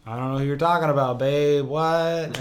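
a hint of the evasive husband; quick mock-innocent protest; lightly mocked denial. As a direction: play dumb, lightly. Acts cheating husband denying it.

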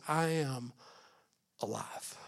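I am alive, quiet, with alive falling to almost nothing; hushed. Shown as a demonstration. Pastor first saying Jesus' words to the church, hushed. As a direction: breathe I am alive softly as a secret. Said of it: "he said it like this".

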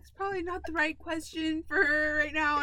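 nice. Retold or imitated. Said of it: "She's all nice about it".

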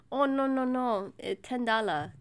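insistent broken-English imitation; mimicked masseuse. Customer mimicking masseuse demanding a bigger tip, insistent put-on voice.

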